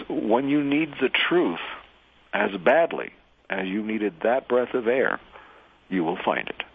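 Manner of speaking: measured teacher's calm, with deliberate pauses. Retold or imitated. Master to gasping disciple, very calmly. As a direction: deliver it unhurried, as a calm master. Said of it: "looks at him very calmly and says".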